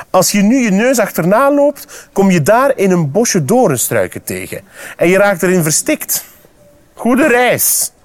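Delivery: mocking frog. Frog sending squirrel toward thorn bushes, mocking high voice. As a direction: warn them with mock helpfulness.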